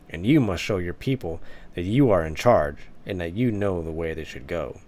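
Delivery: a hint of a lecturing elder, firm and measured; lightly voiced stern elder. Elder instructing prince Stratos on male leadership, measured and firm. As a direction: preach duty to the young prince, calm but commanding.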